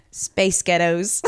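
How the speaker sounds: drawn-out American "space ghettos"; American accent. Shown as a demonstration. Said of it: "space ghettos in an American accent".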